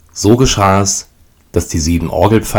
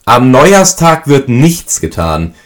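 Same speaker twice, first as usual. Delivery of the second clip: stern mother; 7 semitones higher, 5 dB louder, slower than usual. A narrator's reading. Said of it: "ließ sich auch schon die Mutter vernehmen".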